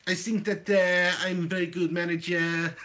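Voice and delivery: put-on halting French-accented manager; shaky-accurate French accent impression; David Ginola. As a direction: attempt a Frenchman's English. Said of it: "I was trying to be David".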